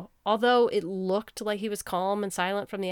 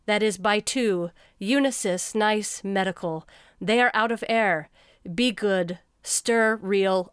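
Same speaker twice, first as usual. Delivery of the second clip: reading nonsense deadpan; slower than usual. Shown as a demonstration. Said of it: "this was the captioning".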